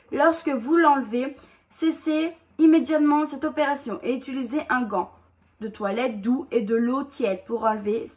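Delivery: steady, careful label-reading voice; reading instructions aloud. Acted. Reading the mask instructions to viewers, steady read-out voice. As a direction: read the directions off the box, evenly.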